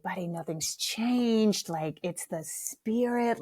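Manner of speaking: slow, reassuring parent; soothing. Retold or imitated. Mother hugging her crying kid by the road, soothing. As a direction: console gently, stretching the words out.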